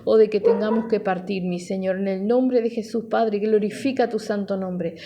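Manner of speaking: steady, flowing congregational prayer; fervent prayer. Real, not acted. Pastor asking the Father to minister to listeners, fervent prayer. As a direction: pray earnestly in an unbroken stream of petitions.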